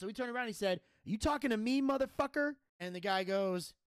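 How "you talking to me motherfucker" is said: mock confrontation, pitched higher; retold angry challenge. Wrestler turning on the man behind him, imitated anger. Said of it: "'Cause he's pissed".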